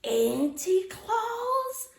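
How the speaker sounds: questioning shout. Acted. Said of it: "Sophie shouted".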